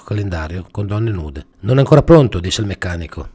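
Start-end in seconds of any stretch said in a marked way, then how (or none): 1.6-2.4 mechanic voice. Acted.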